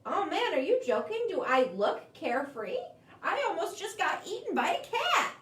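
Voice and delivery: fast, incredulous, half laughing; exasperated bird. Acted. Bird answering the crab, mock exasperated scoff. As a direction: scoff at the crab's silly idea. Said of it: "says the bird".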